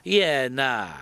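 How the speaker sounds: Iena run together as ena in a Kiwi accent; clipped Kiwi accent, one quick word; Kiwi yeah nah. Shown as a demonstration. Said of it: "je vais vous demander de répéter après moi".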